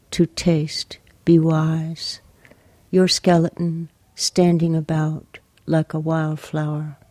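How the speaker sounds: measured, even poetry reading with long pauses; poem reading. Acted. Poet reading her poem for Lucy to the interviewer, measured poem reading. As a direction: read the poem line by line, leaving space.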